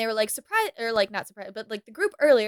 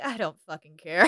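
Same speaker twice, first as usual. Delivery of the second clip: dismissive; 6 semitones lower, 10 dB quieter than usual. Retold or imitated. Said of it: "And he's like".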